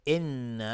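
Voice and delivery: «ان» with its doubled noon hummed for two counts; ghunna on the noon. Shown as a demonstration. Teacher shows students the two-count ghunna, noon of «ان» hummed.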